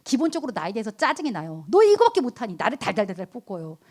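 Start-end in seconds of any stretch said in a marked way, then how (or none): 1.7-2.5 sharp nagging jab at yourself, higher and louder; exasperated self-nag; self-scolding. Retold or imitated. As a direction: scold yourself like a fed-up critic. Nagging oneself in frustration.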